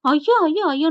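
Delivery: mother wails at her son, hammed-up lament; mock wailing. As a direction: wail while beating the chest. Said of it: "நெஞ்சில அடிச்சுக்கிறது".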